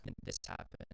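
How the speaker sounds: breathy whispered teaser; whispered narrator line. Shown as a demonstration. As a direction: whisper it like a hook. Whispered voiceover marker.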